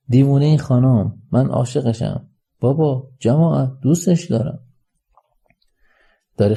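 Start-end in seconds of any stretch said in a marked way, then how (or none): 0.1-4.6 raised voice proclaiming love; calling out to a crowd; loud public declaration. Acted. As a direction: announce it to the whole room, voice lifted. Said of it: "با صدای بلندتر".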